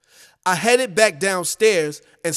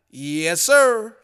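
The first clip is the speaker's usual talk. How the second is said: exuberant. Acted. Joe answering the voice on the phone, exuberantly. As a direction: stretch it into a ringing, exuberant answer. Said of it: "I exuberantly replied".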